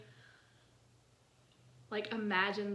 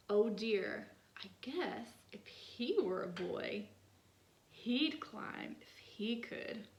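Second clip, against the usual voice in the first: gentle poem reading. Acted. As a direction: read it like a little poem.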